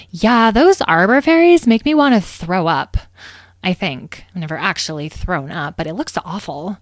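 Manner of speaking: lightly voiced petulant whining; sulky distaste; disgusted young fairy. Citrine complains, disgusted.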